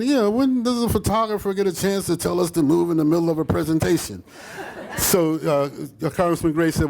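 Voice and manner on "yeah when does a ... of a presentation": Desmond Tutu. Retold or imitated. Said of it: "Desmond Tutu says to Congressman".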